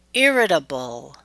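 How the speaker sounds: "irritable" stressed on the first syllable, IR; exception stress pattern. Shown as a demonstration. Teacher gives an exception, "irritable" stressed on IR. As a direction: hit IR in "irritable" and let the rest fall. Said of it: "there will always be exceptions".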